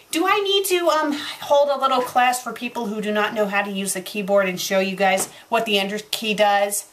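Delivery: exasperated rant. Real, not acted. Reviewer scolds authors who skip the enter key, exasperated. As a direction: scold careless writers, fed up. Ranting at the fanfic's formatting.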